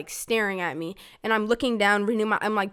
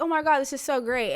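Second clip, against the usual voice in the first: higher-pitched retold delight; happy excitement; 5 semitones higher than usual. Seven-year-old hugging her mom, happily excited. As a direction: gush a little, mid-hug.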